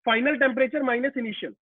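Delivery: formula said slowly, word by word; slow spelling out. Shown as a demonstration. Teacher repeating the formula.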